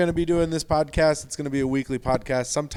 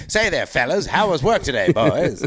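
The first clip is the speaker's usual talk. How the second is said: a bit louder vintage patter; old-timey work voice; 3 semitones higher, 4 dB louder than usual. Pretend. Husband greets the boys in his work voice, chummy patter. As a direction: lightly do a chummy 1930s greeter. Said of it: "my work voice".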